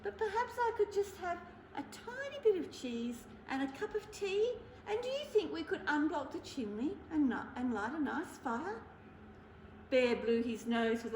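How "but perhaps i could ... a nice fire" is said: lightly higher, hopeful asking; mouse voice. Acted. The mouse hopefully asks Bear for cheese and tea. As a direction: wheedle politely like a mouse. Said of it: "said the mouse".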